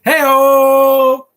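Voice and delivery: high loud mock Russian shout; hammed-up Russian "hey-o"; mock Russian cheer. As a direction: belt it in a hammy Russian accent. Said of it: "better Russian accent".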